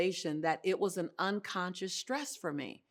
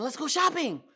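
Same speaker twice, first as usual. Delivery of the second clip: excited; 7 semitones higher, 6 dB louder than usual. Retold or imitated. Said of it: "I kept saying".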